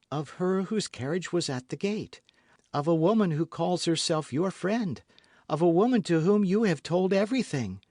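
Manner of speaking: put-on rising urgency in a young woman's voice; Constance voiced. A narrator's reading. Constance to D'Artagnan, building urgency.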